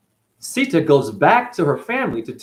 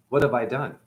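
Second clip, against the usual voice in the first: hushed regret; 2 semitones lower, 5 dB quieter than usual. Retold or imitated. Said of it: "Shiva goes".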